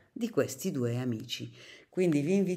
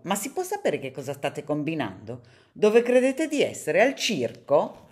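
scolding shriek; 2 semitones higher, 6 dB louder than usual. Acted. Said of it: "improvvisamente strillò".

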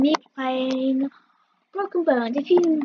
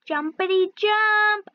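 sing-song jumpity; 4 semitones higher, 4 dB louder, slower than usual. Pretend.

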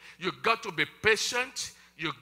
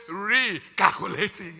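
slow, even machine voice; unhurried robotic recalculating; calm GPS voice; 5 dB louder, slower than usual. Pretend. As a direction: announce it like a satnav. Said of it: "But I hear heaven say".

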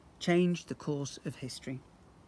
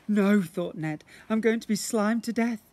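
panicked thought; 5 semitones higher, 5 dB louder than usual. Acted.

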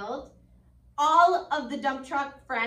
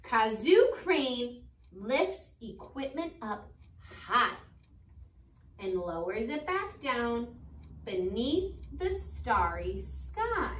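slow, lilting storybook read; gentle read-aloud for kids; reading to children; slower than usual. Acted. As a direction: read it like a bedtime picture book. Teacher reads picture book aloud.

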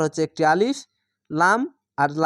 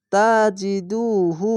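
1 slow recitation; 2 semitones higher, much slower than usual. Shown as a demonstration. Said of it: "পেশের পরে ওয়াও সাকিন এক আলিফ টেনে পড়বেন".

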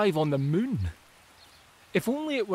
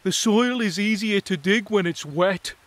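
lightly voiced mole; 4 semitones higher, 6 dB louder than usual. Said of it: "said a mole".

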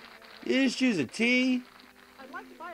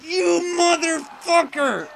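furious yell; 9 semitones higher, 3 dB louder, slower than usual. Real, not acted. Losing the game, cursing at it.

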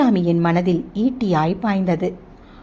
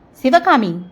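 sharp raised cry of the name; angry outburst; 5 semitones higher, 4 dB louder, slower than usual. A narrator's reading. Abirami flaring at her gossiping friend, angry cry. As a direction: snap her name in sudden anger. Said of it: "அபிராமியின் கண்கள் அனல் பறந்தது".

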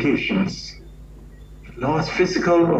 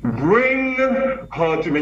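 higher, slower booming command; big commanding voice; 6 semitones higher, slower than usual. Retold or imitated. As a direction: boom it out like a commanding elder. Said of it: "You know his big voice".

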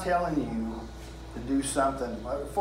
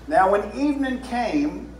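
southern drawl on evening; 6 semitones higher than usual. Shown as a demonstration. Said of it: "That's my southern drawl".

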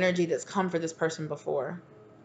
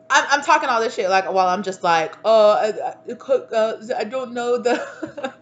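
loud, higher ramble breaking into laughter; laughing at herself; 5 semitones higher, 7 dB louder than usual. Real, not acted. Reader laughing at her own sassy talk, breaking up. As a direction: stammer into a helpless laugh. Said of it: "I gotta laugh at myself".

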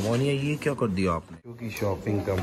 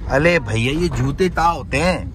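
put-on lisping baby talk; 3 semitones higher, 4 dB louder than usual. Mimics child's lisping shoe question.

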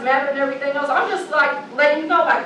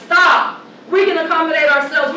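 real shout; 3 dB louder than usual. Real, not acted. Heated speech, shouted interjection.

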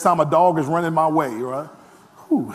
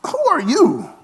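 a higher, lightly put-on "Who are you?"; mock puzzled; 6 semitones higher than usual. Pastor plays the unimpressed congregation, lightly mock puzzled. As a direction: ask it like you're eyeing a stranger. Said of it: "I'm like".

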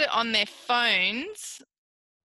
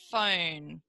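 phone whispered, no voice; 5 semitones lower, 4 dB quieter than usual. Shown as a demonstration. Therapist whispers phone to show its sounds. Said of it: "Watch how many sounds are in phone".

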